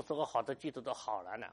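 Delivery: mild sigh of a worried believer; complaining church member. Retold or imitated. Pastor voicing a believer's complaint, mildly. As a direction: quote the member's complaint gently. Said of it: "说：".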